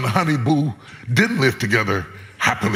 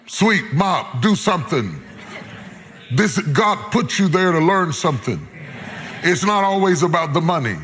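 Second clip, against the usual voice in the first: raised, urgent exhortation; preaching. Acted. Preacher urging workers to stay, raised preaching voice. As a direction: press it on them, faster at the end.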